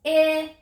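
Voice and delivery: 'ih' held long on a high level note; short I sound. Shown as a demonstration. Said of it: "One more time".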